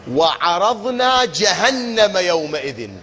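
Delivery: slow, melodic Quranic chanting; measured tajwid recitation. Acted. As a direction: chant the verse slowly and evenly. Reciting Quran verse again.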